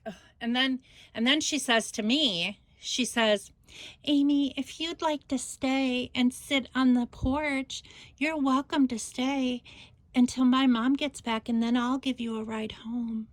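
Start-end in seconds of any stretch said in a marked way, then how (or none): 4.0-13.3 imitating sugary politeness, pitched up; mock-gracious, syrupy invitation; syrupy sweet. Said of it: "So sweet and syrupy".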